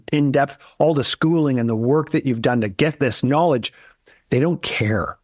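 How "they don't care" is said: breathy whisper, dropping the voice; whispered aside. Real, not acted. Advisor whispering to the host that clients don't care. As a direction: lean in and whisper the hard truth.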